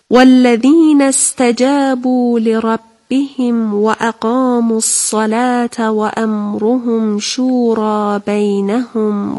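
slow, measured Arabic recitation; Quran recitation. Real, not acted. Teacher reciting the whole verse for pupils, slow Quran recitation. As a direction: draw out the long vowels reverently.

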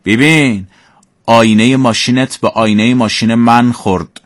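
sarcastic, rising question; mock angry driver. Shown as a demonstration. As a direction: jab at the other driver. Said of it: "با عصبانیت گفته".

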